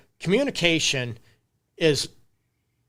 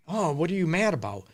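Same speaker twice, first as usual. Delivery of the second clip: softer, curious "Oh, what are you mad about?" asked gently; gentle, concerned partner asking what's wrong; caring; 3 semitones higher, 3 dB quieter, faster than usual. Shown as a demonstration. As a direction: reach out with real concern. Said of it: "You're coming out of care".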